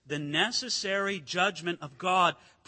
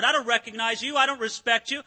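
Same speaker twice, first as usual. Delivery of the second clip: defiant Pharaoh; 4 dB louder than usual. Retold or imitated. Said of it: "he didn't respect the Lord".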